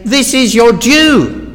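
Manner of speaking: loud, slow, high declaration of praise; emphatic declaration. Acted. Preacher shows worshippers how to praise God, emphatic declaration. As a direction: declare it firmly, weighting each word. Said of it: "You say".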